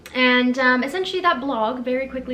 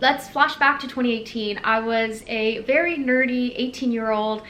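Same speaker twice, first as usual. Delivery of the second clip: usual speaking voice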